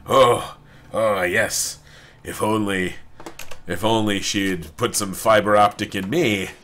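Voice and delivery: lightly voiced aroused robot butler; a hint of mock-sultry robot longing; Codsworth. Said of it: "He's like".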